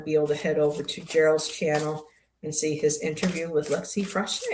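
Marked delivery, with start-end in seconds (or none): 4.0-4.4 "Froche" as a first guess at the surname; tentative pronunciation. Real, not acted. Streamer attempts guest Lexi's surname "Froche", tentative pronunciation. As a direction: try "Froche", unsure of the name. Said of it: "gotta learn how to pronounce her name properly".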